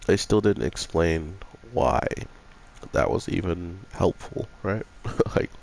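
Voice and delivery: talking around a cough drop; mouth full. Real, not acted. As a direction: speak with a lozenge in your mouth. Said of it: "I apologize if you hear anything in my mouth".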